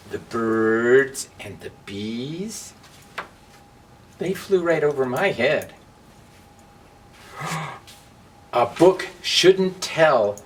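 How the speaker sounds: loud, lively two-voice storybook read; big storybook voices, trading lines; voiced story characters. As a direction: act out the match and the book bickering.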